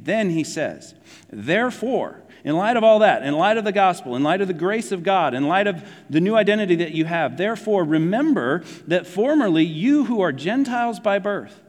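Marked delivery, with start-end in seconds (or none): 1.3-11.6 higher-pitched, insistent recitation; emphatic scripture preaching. Acted. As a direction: build the list point by point, pitch lifted. Preaches through the verse emphatically.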